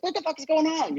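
high, baffled blurt; bewildered outburst. Retold or imitated. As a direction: throw up your hands confused. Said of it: "They'd be like".

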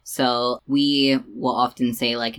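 ordinary talk, nothing marked

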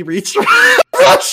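dramatic exclamation. Acted. Dramatic reading arrival.

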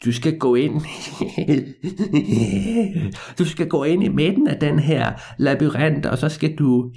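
put-on a crafty old man with a job for the boy; sly old man.

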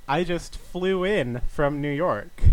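slow, punchy joke setup line; old borscht belt comic. Acted. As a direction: deliver it like a stand-up opener. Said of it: "One more again, one more time".

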